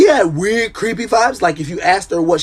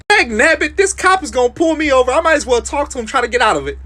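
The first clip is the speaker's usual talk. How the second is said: exasperated friend; 7 semitones higher than usual. Retold or imitated. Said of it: "So he was like".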